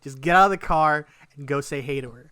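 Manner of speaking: loud, firm self pep talk; hyping himself up. Retold or imitated. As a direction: push yourself on, as retold. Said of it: "trying to hype myself up".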